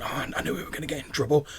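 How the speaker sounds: slightly high, quick worried mumble; fretting woman's voice. Acted. Woman behind crates frets about trouble, lightly voiced. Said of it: "a woman's voice going".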